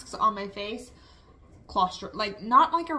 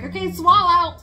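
nurse voice; 9 semitones higher, 12 dB louder than usual. Retold or imitated. Nurse quoted instructing her.

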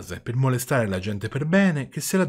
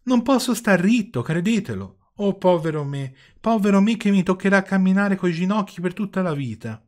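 high, loud puppet wail; whining lament; 9 semitones higher, 5 dB louder than usual. A narrator's reading. Puppet tells father he cannot stand up, whining lament. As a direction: bemoan your fate in hammed-up misery. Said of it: "tutti questi piagnistei".

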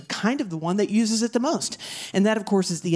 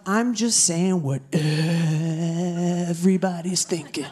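edgelord comic. Acted. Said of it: "which I will now demonstrate".

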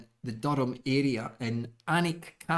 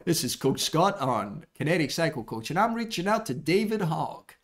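radio DJ voice. Acted. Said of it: "I feel like I'm on Radio One".

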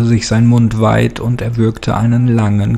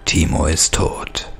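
low, unvoiced, otherworldly whisper; eerie bone-master voice; 5 semitones lower, 3 dB quieter than usual. Bone master anoints his new acolyte in a ghostly whisper. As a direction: hiss the new name like an ancient rite. The speaker names Timo Devox.

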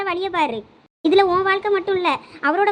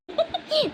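quick high giggle, falling; short laugh; 8 semitones higher, 4 dB quieter than usual. Acted. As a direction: let out a brief, light giggle. Teasing among sisters at bedtime.

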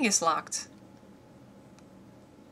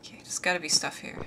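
fast, hushed whisper; 2 semitones lower, 6 dB quieter, faster than usual. Real, not acted. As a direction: whisper so nothing hears you. Sneaking in a horror game.

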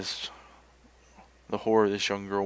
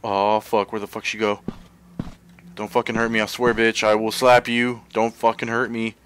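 louder, urgent, half-laughing desperation; frantic pleading; 6 dB louder than usual. Real, not acted. Trapped player begging the monster not to hurt him, frantic. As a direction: beg to be let out, then threaten.

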